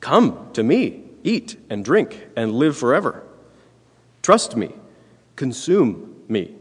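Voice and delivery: a lightly voiced Jesus, slow and inviting; Jesus calling people to come to him, slow and inviting. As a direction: call them in gently, slowly. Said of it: "he's calling people".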